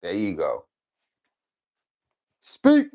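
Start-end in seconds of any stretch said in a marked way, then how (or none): 2.4-2.9 high, loud one-word command to the dog. Real, not acted. Owner coaxing his dog Boss to bark, high and loud commands.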